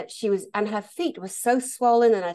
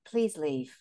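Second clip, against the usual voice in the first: softer, calm and polite; a composed medium quietly dismissing her; 5 semitones lower, 5 dB quieter than usual. Retold or imitated. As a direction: ask her to go, gently but firmly. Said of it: "he very politely said".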